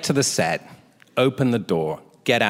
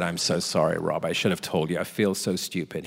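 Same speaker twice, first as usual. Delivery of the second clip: sheepish apology; 5 semitones lower, 5 dB quieter than usual. Retold or imitated. Apologising to director in retold exchange.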